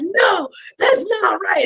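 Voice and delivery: retold protest.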